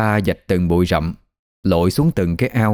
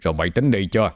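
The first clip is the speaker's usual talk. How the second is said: snapping; faster than usual. Acted. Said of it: "ông Ba gắt".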